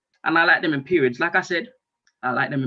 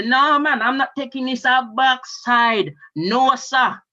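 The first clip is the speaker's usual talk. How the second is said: emphatic refusal; 4 semitones higher, 4 dB louder, slower than usual. Retold or imitated. Acted refusal of the medication.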